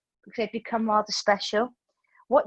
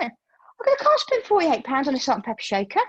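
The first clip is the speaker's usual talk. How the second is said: high, louder mock protest over the price; 4 semitones higher, 3 dB louder than usual. Retelling arguing with partner about the shaker, hammed-up protest. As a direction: wail about wasting money, hammed-up. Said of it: "acted quarrel with partner".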